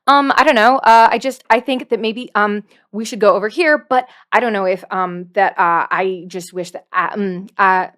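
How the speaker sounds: hesitant, halting, full of ums and uhs; a nervous little guy who keeps stalling with um; nervous um-filled voice. Shown as a demonstration. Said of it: "character voice is just saying um a lot".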